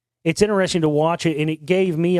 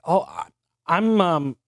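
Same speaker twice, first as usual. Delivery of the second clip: mildly flustered, halting stammer; hesitant false starts, acted lightly; 2 semitones higher, slower than usual. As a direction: retell a lost-for-words fumble. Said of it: "I'm, I'm flustered".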